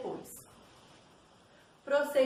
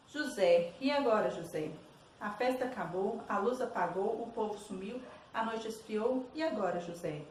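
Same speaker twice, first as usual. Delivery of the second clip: poem reading. Acted. Teacher reading Drummond's verses to students, poem reading. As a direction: read the poem out, dropping at each line's end.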